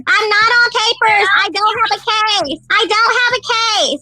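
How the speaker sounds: slow, drawn-out denial; slow, insistent refusal; defiant denial. Real, not acted. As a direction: stretch out each denial emphatically. Defiant denial to chat accusations.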